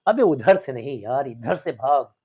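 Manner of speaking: loud slow scold, pointing the way. Acted. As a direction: shout him toward the other door. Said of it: "डांटते हैं".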